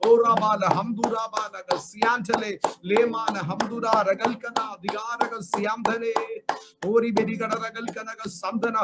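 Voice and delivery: murmured tongues prayer, steady flow; praying in tongues. Acted. Speaking in tongues. (अन्य भाषा में प्रार्थना)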